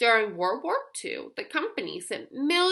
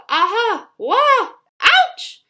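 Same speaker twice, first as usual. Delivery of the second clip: rising yelps, each louder and higher; mock cries of pain; 9 semitones higher, 9 dB louder, slower than usual. Narrator voicing kids getting hurt, loud high yelps. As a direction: squeal out little hurt cries. Sounds of bandage users.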